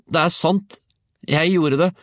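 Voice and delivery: put-on high, loud, insistent child; boy shouting. A narrator's reading. Georg insists to disbelieving grandmother, high shout. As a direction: shout your protest high. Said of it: "ropte Georg".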